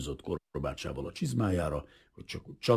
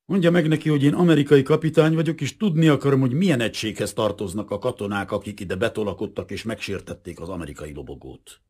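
loud, high, offended protest; indignant demand; 5 semitones higher, 7 dB louder than usual. A narrator's reading. Wounded captain tells the prince to translate, indignant. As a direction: insist on your rank and rights.

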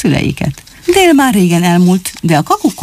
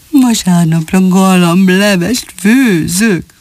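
rejoicing; much slower than usual. Acted. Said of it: "ujjongott Rövidfülűné".

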